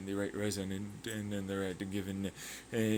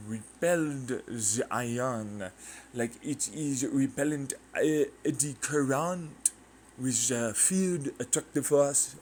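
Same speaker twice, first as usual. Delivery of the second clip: put-on half-joking British actor accent, pitched up; 3 semitones higher, 3 dB louder, slower than usual. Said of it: "Can I stop doing the accent?".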